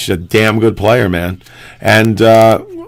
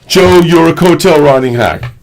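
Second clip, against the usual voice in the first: lightly mocking, higher-pitched heckler; heckling tweeter; 4 semitones higher than usual. Host quoting a hostile tweet, mildly mocking heckler voice. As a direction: read out the insult as a mild taunt. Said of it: "and he, and he instantly".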